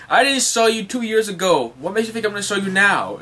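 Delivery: high, loud, outraged retort; indignant scolding. Acted. Nami berates Brook after his request, acted indignant.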